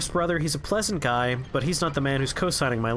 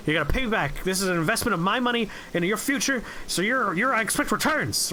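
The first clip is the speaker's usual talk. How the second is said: mock screaming boss; 5 semitones higher, faster than usual. Strung-out boss ranting at the student about his investment. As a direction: imitate a wired boss lecturing a kid about money. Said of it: "guy was incomprehensibly screaming at me".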